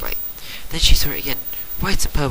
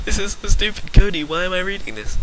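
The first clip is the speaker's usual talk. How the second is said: amused disbelief; 8 semitones higher than usual. Real, not acted. Reader mocks the story.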